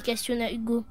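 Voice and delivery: ordinary delivery, nothing marked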